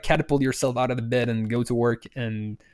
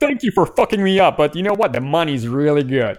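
mock cheerful voice; 3 semitones higher, 7 dB louder than usual. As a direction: sell it like a happy tech worker. Mock cheerful tech worker.

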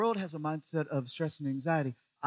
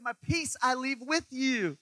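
slow Jesus voice; 9 semitones higher, slower than usual. Retold or imitated. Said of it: "'Cause he said".

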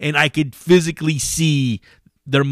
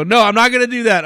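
mock innocent denial; 11 semitones higher, 5 dB louder, faster than usual. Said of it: "I go".

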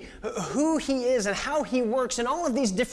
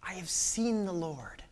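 hushed repeat; 5 dB quieter than usual. Acted. Repeated softer.

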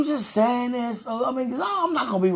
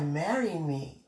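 low, soft, slow voice of God; hushed, drawn-out divine proposal; quoting God; 6 semitones lower, 8 dB quieter, slower than usual. Retold or imitated. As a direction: drop low and slow for God's words. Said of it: "He said".

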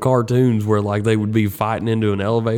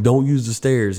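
higher-pitched bad British imitation; terrible British accent; 4 semitones higher than usual. Retelling the tour director's warning to passengers, terrible British accent. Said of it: "Terrible British accent".

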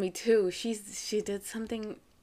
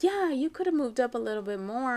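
higher-pitched imitation of a complaining daughter; mock grumble with raised pitch; retold complaint; 5 semitones higher, 4 dB louder than usual. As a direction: push it out like a kid's reproach. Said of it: "I didn't mean it like that".

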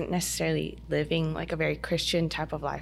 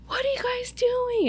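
urgent high whisper; whispering to friends during prayer time. Retold or imitated. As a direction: whisper it in alarm. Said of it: "I'm like".

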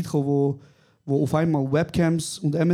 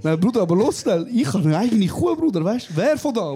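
louder and higher, eager mock excitement; hyped about owning a cow; excited; 5 semitones higher, 3 dB louder than usual. Grandson thrilled about his own cow, loud and high. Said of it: "ich so".

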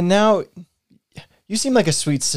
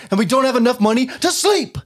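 exasperated climax; 3 semitones higher than usual. Acted. Grievance list peaks in quarrel.

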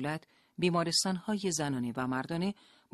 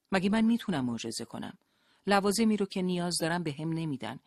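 defensive; 3 semitones higher than usual. Acted. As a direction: push back, on the defensive. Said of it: "حالت تدافعی گرفت".

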